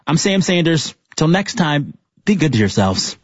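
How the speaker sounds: measured scripted outro, phrase by phrase; composed public radio read; radio host sign-off. Real, not acted. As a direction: sign off the show to listeners.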